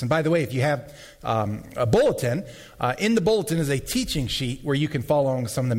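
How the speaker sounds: losing voice, a bit hoarse. Real, not acted. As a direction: talk through a tiring throat. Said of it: "I am losing my voice".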